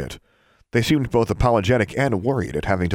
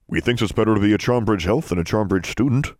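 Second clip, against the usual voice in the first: a chirpy servant elf with odd grammar; house elf; 2 semitones higher than usual. Acted. Elf Poe voiced.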